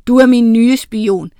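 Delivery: høj, kommanderende heks; ond heks. A narrator's reading. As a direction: giv ordre som den onde heks. Ond heks instruerer sin spion. (let spillet, myndig heksestemme)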